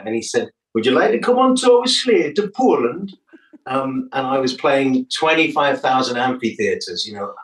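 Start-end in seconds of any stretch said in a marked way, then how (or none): 0.7-3.2 put-on Geordie accent. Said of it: "That's my Geordie accent".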